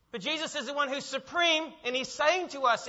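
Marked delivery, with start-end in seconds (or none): none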